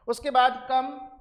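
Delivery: कम said as kum, stretched slowly; teacher modelling कम; demo pronunciation. Shown as a demonstration. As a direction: say कम with a short u sound, slow and clear. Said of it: "आप pronunciation देखिए".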